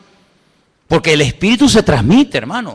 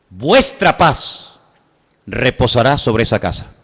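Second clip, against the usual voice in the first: slow solemn quote; 6 semitones lower, slower than usual. Acted. Quoting the Lord solemnly.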